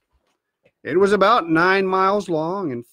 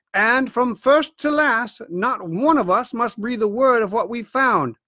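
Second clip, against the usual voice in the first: grave doctor, a touch higher, urging secrecy; warning doctor; 3 semitones higher than usual. Acted. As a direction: lay down the law to a blabbermouth. Doctor warns the squire.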